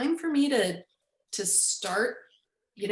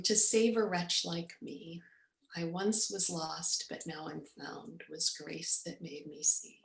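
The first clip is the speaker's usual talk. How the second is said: sweet voice; 2 semitones lower, 5 dB quieter than usual. Retold or imitated. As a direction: recite it tenderly, sinking softer toward the end. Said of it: "the sweetest voice".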